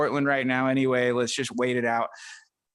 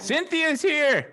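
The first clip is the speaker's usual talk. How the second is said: excited announcement; 11 semitones higher, much slower than usual. Real, not acted. Announcing a late arrival.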